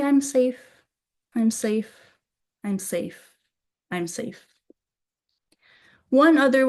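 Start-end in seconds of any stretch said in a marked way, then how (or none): 0.0-4.5 soothing affirmation. Shown as a demonstration. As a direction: repeat it gently, letting it sink away. Soothing repeated affirmation when scared.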